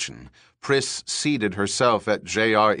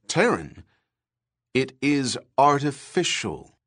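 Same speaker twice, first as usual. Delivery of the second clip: higher, deliberate broadcast voice; TV announcer voice; 5 semitones higher, 4 dB louder than usual. Acted. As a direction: present it like a TV expert. TV research chief's report.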